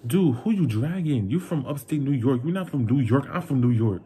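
scornful comeback. Retold or imitated. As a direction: scoff back at an empty threat. Acted comeback to parents' threat.

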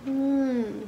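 chewing while talking; muffled through food; mouth full of noodles. Real, not acted. Seen 1: Noodles hang from lips, then closed-mouth chewing before speaking.

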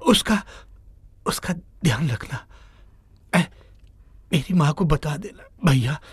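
a touch of a weak, broken dying voice; dying plea. Acted. Dying Rahul begs the driver to care for his mother, faltering. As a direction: push each word out like it's your last breath.

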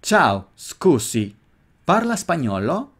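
repeat-after-me Italian; slow Italian drill. Shown as a demonstration. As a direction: model it slowly in Italian accent. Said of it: "Repite después de mí tres veces".

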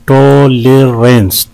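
"टॉलरेंस" slowly, in three beats; syllable breakdown. Shown as a demonstration. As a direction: draw out each syllable of "टॉलरेंस". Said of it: "तीन है इसमें". ("टॉलरेंस" तीन हिस्सों में धीरे)

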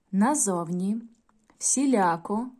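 each word slow and clear, stress marked; correct stress drill. Shown as a demonstration. Teacher models correct stress for pupils to repeat. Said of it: "слова з правильним наголосом".

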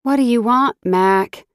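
a hint of an annoyed friend picking up; gruff woman. A narrator's reading. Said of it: "She answered on the second ring and grunted".

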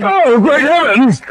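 high, slow, drawn-out gasp of shock; shocked exclamation. Acted. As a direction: clutch your pearls.

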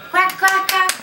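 quack. Shown as a demonstration. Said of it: "A ducky".

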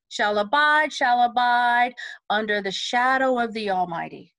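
no breath between "shadow" and "of"; one thought. Shown as a demonstration. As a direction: join "under the shadow of the Almighty" in one breath. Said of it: "So it's one thought".

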